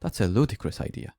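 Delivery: a touch of annoyance, lightly imitated; retelling the student's first mildly irritated try; teacher voicing a student, barely annoyed; slightly annoyed. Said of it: "say it as if she was slightly annoyed".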